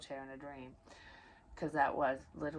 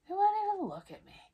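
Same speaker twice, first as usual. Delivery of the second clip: high and loud again, quicker; a quick, exasperated echo, still pitched up; indignant repeat; 5 dB louder, faster than usual. Real, not acted. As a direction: hammer home the hurt. Repeats the complaint faster.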